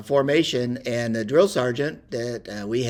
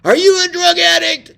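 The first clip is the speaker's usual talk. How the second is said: much higher, much louder mock sergeant bark; drill sergeant yell; 9 dB louder than usual. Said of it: "he says to me".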